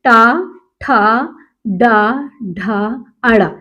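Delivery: slow drawn-out retroflex टा ठा डा ढा; teacher demonstrating Hindi retroflex consonants; retroflex syllables. Shown as a demonstration. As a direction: sound out each retroflex syllable slowly. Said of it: "मूर्धा हम पढ़ रहे हैं".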